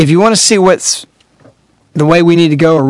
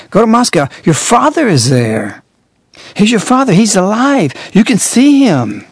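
put-on higher, lilting child lesson voice; teaching children; 5 semitones higher than usual. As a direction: coax it like teaching small kids. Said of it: "They teach the children".

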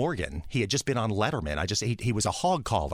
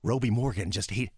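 ordinary talk

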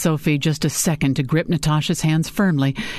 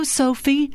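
"Sophie" with a full, round O, higher; rounded emphatic O; 10 semitones higher than usual. A narrator's reading. Ike greets Sophie, stressing the round O in "Sophie". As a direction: lean on the O of "Sophie". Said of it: "a roundness that put the emphasis on the O".

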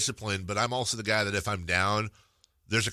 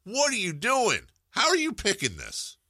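mock alarm; 11 semitones higher, 3 dB louder than usual. Real, not acted. Acting out the voters' comic dilemma.

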